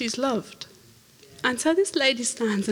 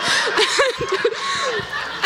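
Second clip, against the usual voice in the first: high breathy laughter. Real, not acted. Recalling the healed wrist, high laughter. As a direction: laugh at the turn of events.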